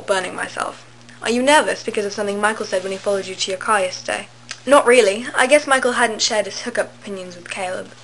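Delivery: put-on amateur British accent reading aloud; horrible British accent. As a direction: read the story in a badly faked British accent. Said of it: "in a horrible British accent".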